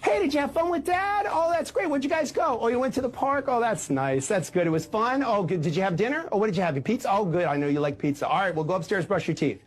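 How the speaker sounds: cheerful mom. Acted. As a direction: play the eager mom asking about the weekend.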